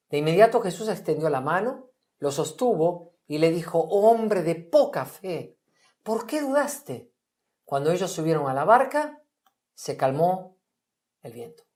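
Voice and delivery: measured Bible passage read aloud; scripture reading. A narrator's reading. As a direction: read the story as scripture to the group. Reads Mateo 14 aloud.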